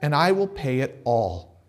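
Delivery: mock desperate servant begging his master; begging debtor. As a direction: plead for mercy on your knees. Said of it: "begged him".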